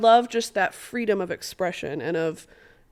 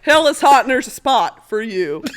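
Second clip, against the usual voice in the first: put-on country accent; 3 semitones higher, 8 dB louder than usual. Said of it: "say something in your country accent".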